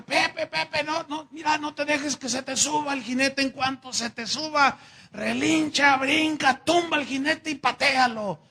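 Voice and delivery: high, loud urgent cries to a friend; urgent shouting. Acted. Pancho shouts to Pepe to throw the rider, high and loud. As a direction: yell instructions at Pepe, pitch up. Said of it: "Le decía".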